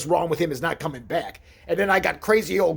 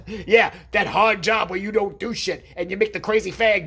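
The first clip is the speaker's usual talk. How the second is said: mock shout; 5 semitones higher, 4 dB louder than usual. Real, not acted. Mocking uncle's job, shouting.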